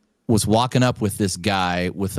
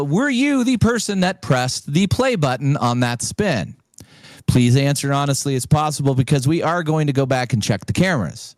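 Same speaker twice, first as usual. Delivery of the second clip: much higher, halting questioning voice; official questioner; 4 semitones higher than usual. Retold or imitated. Caller interrogates the winner, high halting official. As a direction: probe like a stiff investigator.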